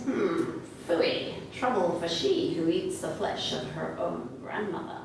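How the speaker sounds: low, soft cat voice; cat's hushed, disapproving aside. Acted. Cat in the corner scorns the girl, low soft voice. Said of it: "and the cat says".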